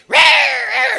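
high, loud imitated cat snarl; preacher voicing the lynx attacking, loud roar; wildcat roar. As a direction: roar like a wild cat pouncing.

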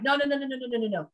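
imitating a horrified doctor, rapid string of refusals; mock horrified. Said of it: "she was horrified".

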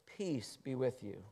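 soft, slow blessing; gentle Jesus. A narrator's reading. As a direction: say it tenderly. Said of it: "he says".

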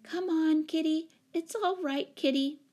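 high, coaxing voice; soothing murmur. A narrator's reading. Jane reaching under a chair for the cat, soothing. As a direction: coax a scared cat gently. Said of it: "murmuring soothingly".

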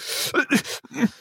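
mock sniffles, holding back tears; imitated stifled sobbing. Store clerk mimicking a crying customer, mock stifled sobs. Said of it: "fighting the urge to stop sobbing".

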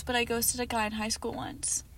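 whispered punchline; breathy whispered confession; hushed aside. Retold or imitated. Mocking a girl's quote.

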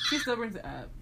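laughing retelling. Real, not acted. Retelling to friend, laughing. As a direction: laugh out the first take. Repeated line.

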